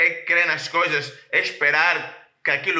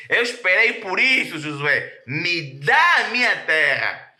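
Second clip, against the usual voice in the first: emphatic demand; 3 semitones higher, 4 dB louder than usual. Acted. Preacher voicing Caleb demanding his land from Josué, loud. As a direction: demand what's yours.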